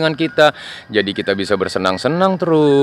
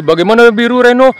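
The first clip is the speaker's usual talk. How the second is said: cheerful little plane, pitched high; high toy plane voice; 10 semitones higher, 5 dB louder, faster than usual. Acted. Plane asks Piku if he likes it, high cheerful. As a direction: ask your friend brightly.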